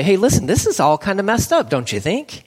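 fervent family plea, climbing high; pleading confession. Acted. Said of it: "gather together and say".

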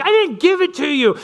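put-on high, whining little boy protest; dad mimicking his son's high protest; whiny kid imitation. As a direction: squeal it like a kid denying everything. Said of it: "And he's like".

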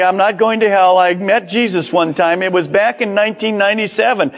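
high, fast, breezy mock boast; casual believer. Policy holder pleads his case to Peter, quick mock patter. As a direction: rattle it off like a name-dropper. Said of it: "give to Peter and say".

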